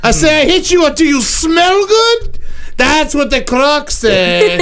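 lightly voiced dim caveman, talking about himself; a hint of a brute barbarian making threats; barbarian Croc. A host playing Croc lightly as a dumb brute, telling the panel his rule on smelly people. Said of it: "Croc is now subbing in".

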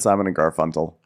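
A singer's surname said as "Garfuntal"; echoed mispronunciation. Retold or imitated. Co-host quoting the slip, the surname as "Garfuntal". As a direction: repeat the surname with a t for the k. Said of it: "You said".

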